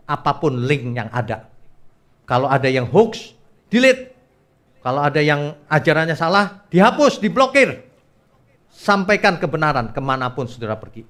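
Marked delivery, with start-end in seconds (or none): 2.9-4.1 sudden high, loud order; emphatic command. Acted. Preacher tells congregation what to do with hoaxes, emphatic command. 6.7-7.8 high, loud double order; emphatic command. Acted. Preacher tells congregation to block false teaching, emphatic command.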